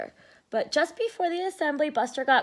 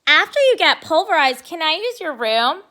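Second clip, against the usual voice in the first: teasing; 4 semitones higher, 7 dB louder than usual. Acted. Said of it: "she asked".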